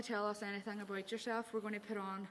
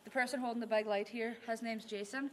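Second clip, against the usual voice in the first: calling out to spirits. Acted. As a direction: address the spirits clearly and politely. Calls out to spirits.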